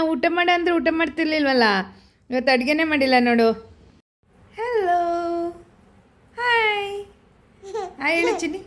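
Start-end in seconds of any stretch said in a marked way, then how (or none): 4.6-8.6 coaxing greeting. Real, not acted. Mother greets her baby, high coaxing voice.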